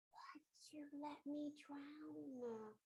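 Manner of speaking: high, slow, drawn-out reproach; mock wailing complaint. Drowned lady confronts God in heaven, high mock wailing. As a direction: whine it slowly as an acted protest.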